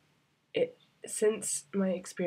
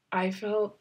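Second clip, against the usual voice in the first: choked up; 4 semitones higher than usual. Real, not acted. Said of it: "I'm really choked up".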